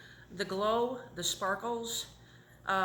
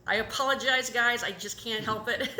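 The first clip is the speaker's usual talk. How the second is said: tearful apology; 3 semitones higher, 6 dB louder than usual. Real, not acted. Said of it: "if I'm crying".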